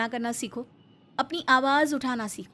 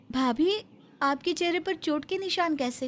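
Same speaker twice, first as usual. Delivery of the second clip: surprised; 4 semitones higher than usual. Acted. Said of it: "हैरानी से बोली".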